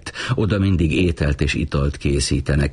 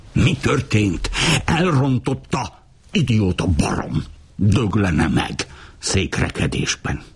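angry cursing; 4 semitones higher than usual. Acted. Tia curses the failed king.

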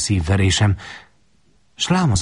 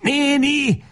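much higher, beside himself with thirst; frantic cry. A narrator's reading. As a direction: scream her name out of control. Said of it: "kiáltja magán kívül". (magánkívüli felkiáltás)

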